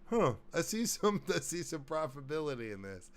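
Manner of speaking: high, amused tycoon voice; a shrewd businessman sizing it up. Pretend. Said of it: "I was just doing a different voice".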